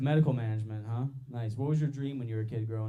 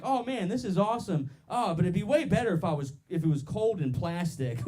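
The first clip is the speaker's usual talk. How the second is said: higher, gushing delivery; mock enthusiasm; 5 semitones higher than usual. Comedian acting out absurd bedroom thoughts, mock enthusiastic. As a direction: act out delighted approval, then qualify it. Mock exclamation during imagined sex.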